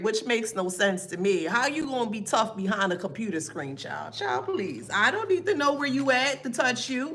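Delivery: usual speaking voice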